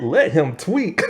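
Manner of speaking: can't believe the line; incredulous repeat. Retold or imitated. The viewer repeating the dialogue, laughing in disbelief. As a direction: echo it back laughing, rising. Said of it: "I'm like".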